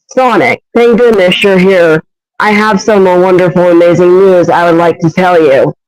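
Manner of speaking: a hint of a high-pitched female character; attempted high-pitched impression. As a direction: try a slightly high-pitched, relieved greeting. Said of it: "voice sounds a little bit high-pitched".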